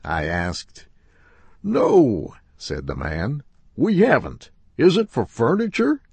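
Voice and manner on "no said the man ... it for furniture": much higher, louder shopman; upholsterer's voice. Acted. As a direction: play the upholsterer up high and loud. Upholsterer answering customer.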